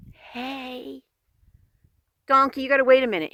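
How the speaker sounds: sudden high, loud, quick call. Real, not acted. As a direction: snap out a call to the wandering dog. Calls out to the dog.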